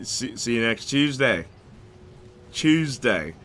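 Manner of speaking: put-on clumsy Aussie accent, 'Tuesday' as 'Chewsday'; bad Australian accent. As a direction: try Australian, not very well. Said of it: "not very good with the accent".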